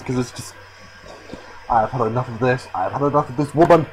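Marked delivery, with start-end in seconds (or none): 1.7-3.9 mock forced line reading. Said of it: "Antoinette is just forcing her lines".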